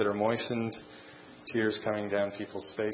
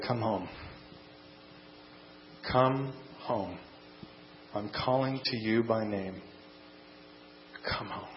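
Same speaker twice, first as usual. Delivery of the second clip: gently calling, softer, trailing quieter; soft and tender; 7 dB quieter than usual. Acted. Jesus calling the lost home, soft and tender. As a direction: call them home like a tender shepherd. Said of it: "he calls to you softly and tenderly".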